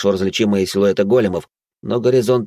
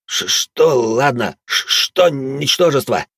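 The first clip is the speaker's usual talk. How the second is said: slow, higher, outraged stutter; indignant stammer; 5 semitones higher, much slower than usual. A narrator's reading. Браут возмущённо заикается на оскорбление. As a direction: splutter at the insult. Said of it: "возмутился вдруг Браут".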